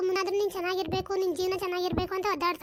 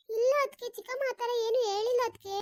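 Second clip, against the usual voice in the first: overacted denial; 3 semitones higher than usual. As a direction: overact the innocent, wailing no. Akshata protests.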